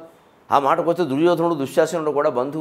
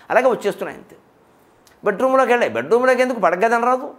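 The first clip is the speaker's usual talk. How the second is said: ordinary delivery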